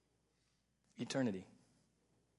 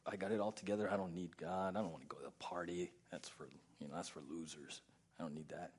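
proud scoffer; 9 semitones lower, 9 dB quieter, faster than usual. Retold or imitated.

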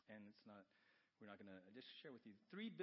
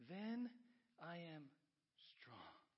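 dramatic hush at the end; fading to whisper; 7 semitones higher, 7 dB louder, much slower than usual. Acted. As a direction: start loud and high, drop to a whisper. Climax of verse drops to whisper.

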